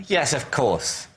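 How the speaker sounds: ordinary delivery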